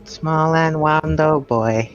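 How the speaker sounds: slow, lightly spooky sing-song; spooky pumpkin voice. Acted. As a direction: croon it like a little pumpkin ghost. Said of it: "spooky ooky pumpkin voice".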